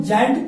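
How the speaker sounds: जायंट with G said as ज; soft G pronunciation. Shown as a demonstration. Teacher answering how we read it, जायंट with a j sound. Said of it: "क्या पढ़ेंगे इसको हम?".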